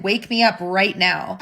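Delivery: slow insistent command. Retold or imitated. Sleeping husband insists to his wife, slow and firm. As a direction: drag out "Wake me up right now." slowly and firmly.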